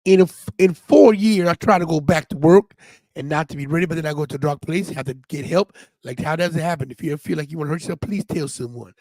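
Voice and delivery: put-on country accent, read aloud; lightly put-on country twang. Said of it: "We say it in a country accent".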